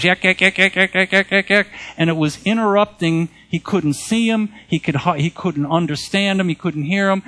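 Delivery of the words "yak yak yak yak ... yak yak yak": chattering yak yak yak, pitched up; mock yakking noise. Preacher imitating the imp's noisy chatter, raised and quick. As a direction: mimic a spirit's annoying chatter. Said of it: "he was making all this noise".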